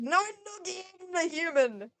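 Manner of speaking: loud, high brash greeting; rowdy shout. Acted. Undyne headlocks the human, loud and brash. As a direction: bellow it like a bully.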